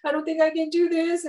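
high, tearful retold meltdown; mock sobbing. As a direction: imitate yourself blubbering in panic. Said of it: "like, sobbing in front of Larissa Doll".

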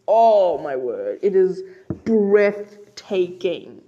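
awed. Real, not acted. Awed by the scene.

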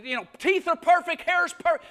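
tempting enemy voice. Retold or imitated. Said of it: "the enemy will say".

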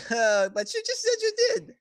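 high-pitched villain voice; slippery villain caught up in mock puzzlement; needling villain. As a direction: counter the denial in a high, airy voice. Villain counters player's denial.

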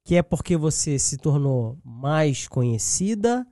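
ordinary talk

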